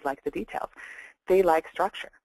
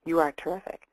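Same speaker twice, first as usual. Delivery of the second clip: firm, unhedged compliment; stated as truth. Shown as a demonstration. Coach demonstrating a compliment without hedging, stated as fact. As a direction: say it as a universal truth. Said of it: "we say".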